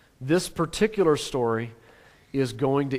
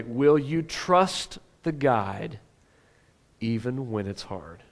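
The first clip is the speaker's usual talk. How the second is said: slow question; 5 semitones lower, 5 dB quieter, slower than usual. Shown as a demonstration. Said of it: "Oh, this is important".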